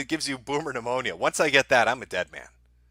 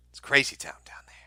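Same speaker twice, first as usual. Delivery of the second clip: breathy whisper, no voice; whispered aside. Real, not acted. Streamer whispering to viewers about the chaos, hushed. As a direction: lean in and whisper it.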